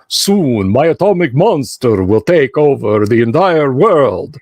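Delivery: hammy mad scientist gloating; lightly voiced 1930s serial villain; mustache twirling villain. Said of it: "mustache twirling".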